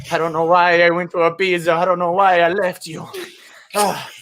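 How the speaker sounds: a hint of non-specific European accent; creeping European accent. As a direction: let a mock European accent creep lightly in. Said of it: "Like that accent creeping in".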